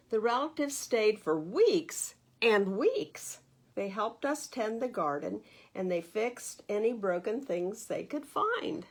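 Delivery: put-on expressive read-aloud to children; lively storybook narration for little listeners; story reading. A narrator's reading. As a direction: read it like a bedtime picture book. Reads picture book aloud.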